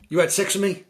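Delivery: high, loud disbelieving question; mock girl voice. Film girl asking the man, high and loud.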